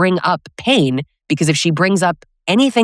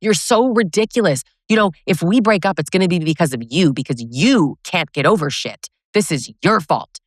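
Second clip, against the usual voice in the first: mock exasperated blaming, higher pitched; exasperated partner; 3 semitones higher than usual. Partner blaming her for raising the past, mock exasperation. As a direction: act out a blaming partner's irritated outburst. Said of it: "But for him, it's".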